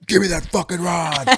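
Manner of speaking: a lightly voiced tough demand in a changed voice; mock fierce demand. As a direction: snap from sweet to tough. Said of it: "And then all of a sudden".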